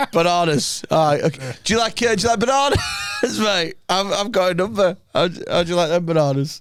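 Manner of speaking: mocking the famous bar scene to mates; mock Good Will Hunting. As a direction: ham up the film quote. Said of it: "like the amount of time".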